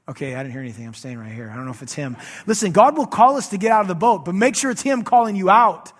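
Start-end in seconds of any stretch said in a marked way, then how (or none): 0.1-2.2 a hint of a wary, quieter Peter holding back; timid hesitant Peter. Peter hesitating in the boat, unsure it's Jesus, timid and quieter. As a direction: play Peter unsure, staying put in the boat.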